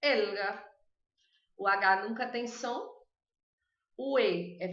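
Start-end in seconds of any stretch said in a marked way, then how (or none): 0.0-0.6 "Elga" with a closed E, a back L and a silent H; Spanish pronunciation. Shown as a demonstration. Teacher answering a student on saying Helga. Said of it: "Como pronuncia Elga?".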